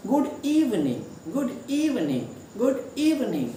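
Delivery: Good इवनिंग with the first syllable of इवनिंग stressed. Shown as a demonstration. Teacher drilling the greeting with first-syllable stress. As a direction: lean on the start of इवनिंग. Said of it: "पहला जो syllable है उस पे हम जोर देंगे".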